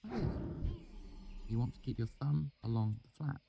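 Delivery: lightly teasing instruction; Denner's voice. A narrator's reading. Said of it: "held her knife".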